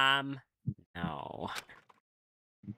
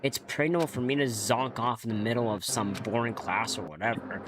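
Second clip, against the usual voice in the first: lightly acted, puzzled game monologue; story narration. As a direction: read the groggy hero's thoughts like a story. Reads game monologue aloud.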